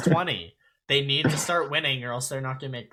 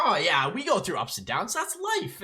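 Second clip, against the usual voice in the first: upbeat; 6 semitones higher than usual. Retold or imitated. Hockey player shrugging off losses to a reporter, upbeat. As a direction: imitate a positive player, pitch leaping up. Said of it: "He was positive".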